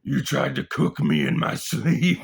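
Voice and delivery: loud, high, acted outrage; hammed-up wounded fury; outraged accusation. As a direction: accuse him at the top of your voice. Acted accusation of sleeping friend.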